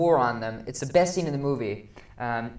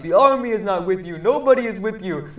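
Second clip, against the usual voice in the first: raised, declaiming voice; mock defiant declaration; 5 semitones higher, 6 dB louder than usual. Critic voicing a man denouncing the government, raised and declaiming. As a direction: tell him he stands alone. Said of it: "some guy who's like".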